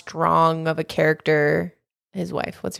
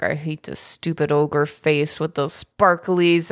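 grumpy Shrek; 3 semitones lower, slower than usual. Retold or imitated. Shrek voiced in the retelling.

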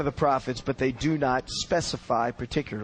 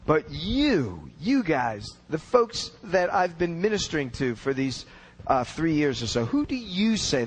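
heavy stress on each "you"; emphatic. Acted. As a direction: press the question on YOU.

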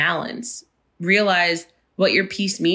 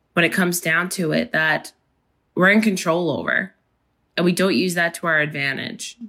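hoarse, raspy real voice. Real, not acted. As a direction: speak through a raspy throat. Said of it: "my raspy voice".

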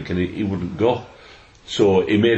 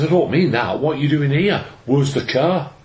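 higher, insistent questioning; retold exasperated wife; 5 semitones higher than usual. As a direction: imitate a wife brushing off the excuse. Wife's exasperated punchline, retold.

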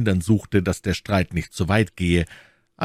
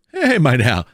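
loud, raised challenge; calling out; 6 semitones higher, 6 dB louder than usual. Acted. D'Artagnan stopping the Englishman, calling out. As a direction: halt him with a sharp call. Calls after departing opponent, stops him.

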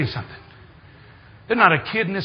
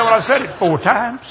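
mildly raised voice, imitating an exasperated wife; mock yell at a hard-of-hearing husband; retold wifely shout; 4 semitones higher, 5 dB louder than usual. Wife answers husband who complains of yelling, mock shout. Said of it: "She shouts at me sometimes".

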